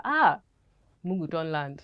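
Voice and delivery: quick line in Nigerian Pidgin accent. Shown as a demonstration. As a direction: say it like a Lagos street hawker. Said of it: "that was Pidgin, that was Pidgin".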